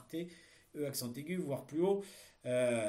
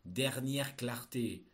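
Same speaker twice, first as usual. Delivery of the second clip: dictating; much slower than usual. Shown as a demonstration. Teacher dictating a text.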